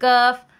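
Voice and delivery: thin, light k in "काफ", clearly sounded; model letter kaf. Shown as a demonstration. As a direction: sound out "काफ" with an unrounded vowel. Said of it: "क्या है?".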